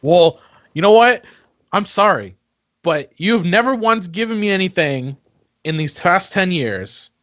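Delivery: defensive. Acted. Defensive argument with sister.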